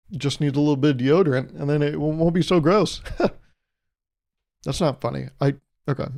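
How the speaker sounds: real giggles breaking through the words; can't keep a straight face after the gross pun; laughing at own joke. Real, not acted. Comic cracks up at his own deodorant joke, laughing.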